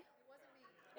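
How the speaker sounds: slow, hushed whisper; whispered aside. Real, not acted. Pastor jokes to congregation, whispered guilty denial. Joking denial about teenagers.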